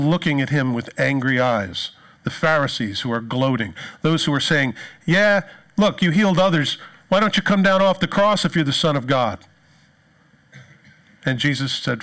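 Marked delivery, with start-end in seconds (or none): 5.0-9.4 raised, jeering taunt at the man on the cross; mocking jeer. Pharisees taunting Jesus on the cross, jeering. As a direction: sneer it up at him like a gloating Pharisee.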